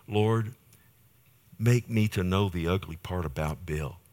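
soft, humble prayer voice; personal prayer. Shown as a demonstration. Preacher shows how he prays daily, softly pleading. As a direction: pray it quietly, pausing between petitions.

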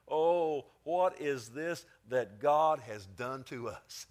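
a touch of dread, drawn out slowly; fearful brothers. Acted. Brothers afraid at the found money, mildly fearful. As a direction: let the alarm creep in.

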